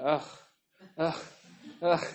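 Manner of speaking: short, quiet "ugh" grunts, spaced out; retold weary groan. Preacher imitating himself waking all night, weary groans. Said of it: "kept waking up and going".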